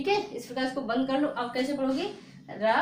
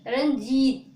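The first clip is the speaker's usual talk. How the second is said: रंजीत said loud and firm; teacher calls out रंजीत to the class; emphatic demo; 6 dB louder, much slower than usual. Shown as a demonstration. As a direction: punch out रंजीत clearly. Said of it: "तेजी से बोलते हैं रंजीत".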